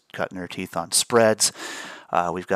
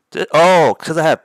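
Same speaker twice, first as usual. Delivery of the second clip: surprised; 10 semitones higher, 12 dB louder than usual. Real, not acted. Realizing settings mistake.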